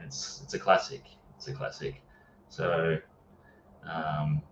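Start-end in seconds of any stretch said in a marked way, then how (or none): 1.4-2.0 breathy whisper, almost to himself; whispered echo. Real, not acted. Echoing his own verdict on a favourite Western in a whisper. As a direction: let the repeat fall away to a whisper.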